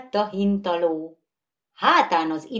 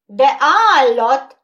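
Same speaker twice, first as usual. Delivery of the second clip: much louder, high screech; 7 semitones higher, 12 dB louder than usual. Acted. Third skittle joining the row, screeching. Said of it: "rikoltott a harmadik".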